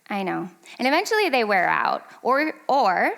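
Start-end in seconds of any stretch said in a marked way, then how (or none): 0.1-0.5 soft, unruffled parent reply; calm broken record. Retold or imitated. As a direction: answer the screaming child quietly and evenly. Calm answer to screaming child.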